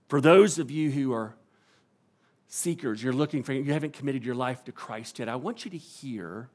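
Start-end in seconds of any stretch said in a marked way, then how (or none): none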